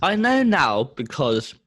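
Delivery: talking round a rattly mint; slow words round a hard sweet; sweet in mouth. Real, not acted. Reviewer starts explaining with a mint in mouth, sweet rattling. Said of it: "put the rattliest sweet in your mouth".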